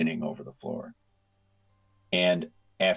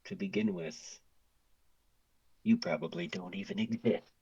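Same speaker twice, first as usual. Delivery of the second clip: out of breath; 4 dB quieter than usual. Acted. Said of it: "out of breath".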